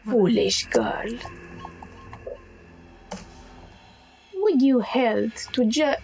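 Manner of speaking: unvoiced whispered first try at the astral; wrong voice for Venoris. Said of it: "sorry, it's a wrong accent".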